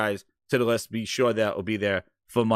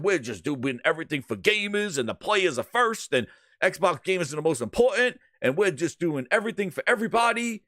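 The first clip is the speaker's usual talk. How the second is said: mocking; 4 semitones higher than usual. Mocks Phil's claims.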